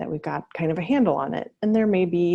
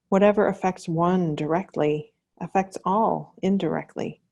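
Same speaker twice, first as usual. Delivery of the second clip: measured reading of a solemn quotation; deliberate, quoted-passage delivery; measured quote reading. Acted. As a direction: read the quote out phrase by phrase, with pauses. Reads a quotation aloud.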